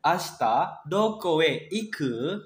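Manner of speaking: "Ashita doko e iku?" with the pitch rising on "iku"; slow question climbing at the end; rising question tune. Shown as a demonstration. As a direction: lift "iku?" up at the close. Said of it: "Nadanya naik kayak gitu".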